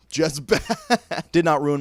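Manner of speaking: helpless amused verdict; breaking into laughter. Real, not acted. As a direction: crack up mid-phrase. Cracking up over the bad acting.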